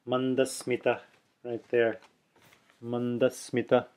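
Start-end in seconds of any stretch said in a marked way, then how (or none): 0.1-1.0 "Mandasmita" with a short ee in "smi"; Sanskrit word. Shown as a demonstration. Teacher demonstrating the Sanskrit word. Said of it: "one more Sanskrit example". 2.8-3.9 "Mandasmita" with a short ee in "smi"; Sanskrit word. Shown as a demonstration. Teacher demonstrating the Sanskrit word. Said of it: "one more Sanskrit example".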